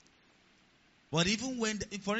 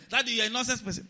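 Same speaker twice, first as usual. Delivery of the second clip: higher-pitched mock outburst at a parent; mock shouting; 7 semitones higher than usual. Grown child to daddy, the wrong way, mock shouting. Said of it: "start shouting at them".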